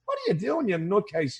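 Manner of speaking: playfully appalled, voice jumping up; mock incredulous. Acted reaction to someone acting foolish.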